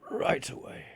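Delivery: unvoiced machine answer; whispered robot reply. NPC robot bunny answers.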